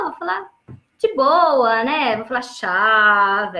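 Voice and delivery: put-on a light touch of casual teen slang; mildly casual, relaxed slang. Shown as a demonstration. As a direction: drop into easy youth talk, lightly. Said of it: "falar de uma maneira mais descolada".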